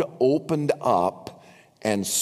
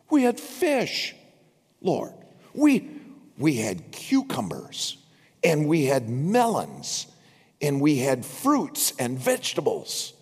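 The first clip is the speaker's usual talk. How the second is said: whiny complaining. Retold or imitated. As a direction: wail it like a spoiled crowd. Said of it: "they reminded God".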